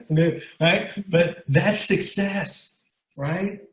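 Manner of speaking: fighting to get the words out through real emotion; holding back tears. Real, not acted. Father moved by his daughter's school paper, near tears. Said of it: "I'm gonna cry".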